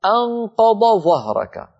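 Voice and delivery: أنقض ظهرك with the ض fully sounded before ظ; slow, careful demo reading; clear dad then zha. Shown as a demonstration. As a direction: keep ض and ظ distinct in أنقض ظهرك. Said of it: "هل رأيتم كيف تتالى في النطق".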